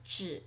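只 in a low dipping third tone. Shown as a demonstration. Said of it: "is usually third tone".

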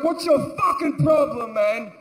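angry retort. Retold or imitated. Angry retort to laughing gunner.

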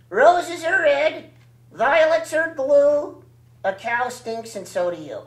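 sing-song rhyme read slowly; poem recital. Acted.

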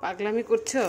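high, loud playful question to a pet; teasing pet talk. Real, not acted. Owner asking Koko if she's going crazy, high teasing pet voice. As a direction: tease the dog in a high pet voice.

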